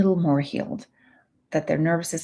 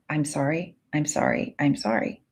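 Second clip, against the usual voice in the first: meek apology; 3 dB quieter than usual. Retold or imitated. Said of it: "kind of meekly saying".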